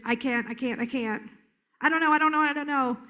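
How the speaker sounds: insistent, repetitive panicky rhythm; mock a frantic child, phrases tumbling out repeatedly; high energy. Trainer imitating an overwhelmed child, high energy. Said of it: "That's a high energy".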